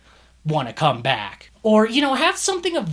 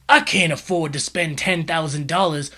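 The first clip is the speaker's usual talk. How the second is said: whispered panic; 4 dB louder than usual. Retold or imitated. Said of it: "the phone call plays out like this".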